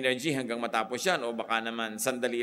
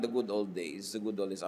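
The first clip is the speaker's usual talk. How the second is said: mocking nostalgia; 4 semitones lower, 4 dB quieter than usual. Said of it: "lagi nilang".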